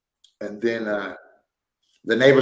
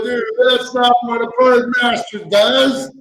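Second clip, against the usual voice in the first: mock-superior correction, pitched up; know-it-all scolding; 8 semitones higher than usual. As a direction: talk down to her like an expert. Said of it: "I was like".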